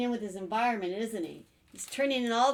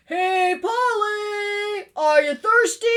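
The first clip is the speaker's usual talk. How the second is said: high, loud, sing-out invitation; calling out; 11 semitones higher, 13 dB louder, slower than usual. Acted. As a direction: holler up to a bird friend. Chameleon calls out to parrot.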